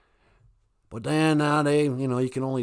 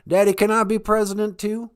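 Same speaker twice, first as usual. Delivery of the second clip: whiny son voice; 10 semitones higher, 7 dB louder than usual. Retold or imitated. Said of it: "I said".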